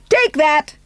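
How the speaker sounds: triumphant taunt; gleeful jab. Acted. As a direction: gloat as you let it drop. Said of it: "she said".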